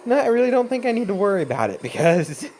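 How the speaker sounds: laughing through the words; chuckling while talking. Real, not acted.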